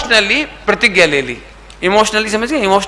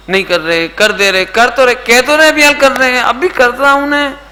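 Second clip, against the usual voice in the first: imitating a child fobbing off mum, rising higher as it goes; put-upon "I'm doing it" imitation; mock exasperated child; 4 semitones higher than usual. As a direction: protest in mounting irritation, as a retold excuse. Voices child putting off mother.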